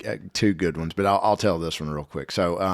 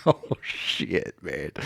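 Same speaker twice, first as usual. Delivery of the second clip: laughing curse; 2 semitones lower, 6 dB quieter, much slower than usual. Retold or imitated. Laughing at the trouble they're in.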